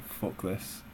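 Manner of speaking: breathy whispered aside to himself; whispered thought. Retold or imitated. Retelling his annoyed thought on the coach, whispered. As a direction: mutter it under your breath, unvoiced.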